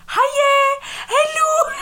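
put-on very high sing-song baby voice; baby talk. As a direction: coo awkwardly at a baby. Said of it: "I feel so strange being like".

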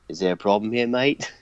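put-on a light Australian accent as Nathan Jones; lightly voiced Australian tough guy; Rocco impression. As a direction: ask it with a mock Australian twang. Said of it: "I just sounded like Rocco".

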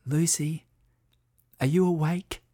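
put-on high, hushed child's whisper. A narrator's reading. Sam whispers to Lucy in bed in the dark, whispering. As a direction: whisper as children awake after bedtime. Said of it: "Sam whispered through the darkness".

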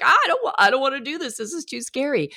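high, panicky child, imitated; kid freaking out. Child at the front of the coaster line, mock panic. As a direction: mimic a child balking in fright. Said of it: "then they'd freak out".

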